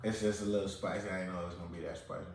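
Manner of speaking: eating while talking; talking through a mouthful of food; mouth full. Real, not acted. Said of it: "and I'm eating conch salad".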